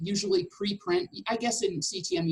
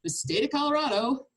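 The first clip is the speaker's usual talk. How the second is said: eye-rolling, joking tone; 3 semitones higher than usual. Retold or imitated. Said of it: "I roll my eyes and say".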